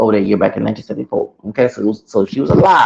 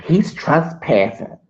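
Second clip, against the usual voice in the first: mimicking manager; 5 semitones higher, much slower than usual. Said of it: "So then she said".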